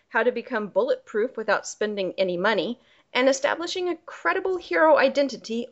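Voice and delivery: ordinary talk, nothing marked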